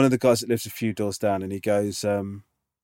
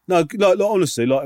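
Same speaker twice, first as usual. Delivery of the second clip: a touch higher and louder, keen salesman; pushy insistence; 7 semitones higher, 4 dB louder than usual. Retold or imitated. Neighbour pressing me to buy headlight bulbs, eager and pushy. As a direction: push the sale eagerly, mildly hammed-up.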